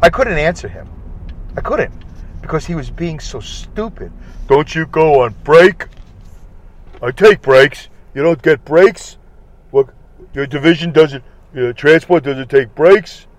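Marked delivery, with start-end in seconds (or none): 4.5-5.9 mocking the idiot coworker. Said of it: "This guy was so stupid". 7.0-13.2 mocking the idiot coworker. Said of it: "This guy was so stupid".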